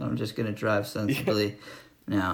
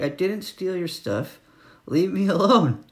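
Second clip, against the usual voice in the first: shouted retort; 6 semitones higher than usual. Retold or imitated. Driver shouts at the angry landowner through window, mock yell. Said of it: "I shout out the window".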